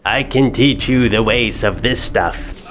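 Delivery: slow, deliberate evil emperor; slow Sith lord. Acted. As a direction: lure him to the dark side slowly. Plays Palpatine recruiting Anakin.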